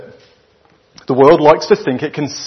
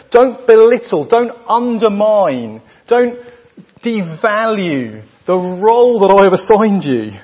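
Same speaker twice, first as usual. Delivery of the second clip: emphatic command; 4 semitones higher than usual. Acted. Preacher voices Jesus' command.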